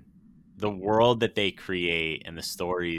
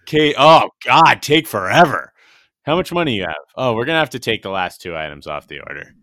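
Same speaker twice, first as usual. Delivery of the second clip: loud, high crackly speaker voice; drive thru speaker; 3 semitones higher, 11 dB louder, faster than usual. Retold or imitated. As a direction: blare it through a drive-thru box. Acting out drive-thru worker.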